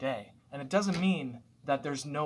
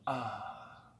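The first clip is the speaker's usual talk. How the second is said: relaxed exhale; 3 dB quieter than usual. Shown as a demonstration. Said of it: "I go".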